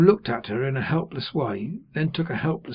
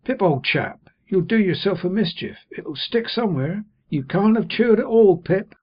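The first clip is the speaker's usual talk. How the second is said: high, anxious pleading, louder on the worst; worried Joe; 7 semitones higher, 5 dB louder than usual. A narrator's reading. Joe fretting that Pip swallowed his bread. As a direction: fret over the boy like a kind blacksmith.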